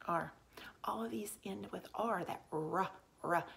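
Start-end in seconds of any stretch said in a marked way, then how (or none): 2.2-3.4 "R" said as its sound, a short "ruh"; letter sound demo. Shown as a demonstration. Teacher showing pupils how blends end, "R" sounded out. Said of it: "we make that R sound".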